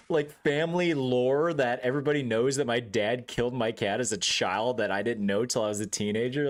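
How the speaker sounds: mock-outraged rant winding down; retold indignant rant. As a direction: demand answers in disbelief. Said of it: "And I'm like".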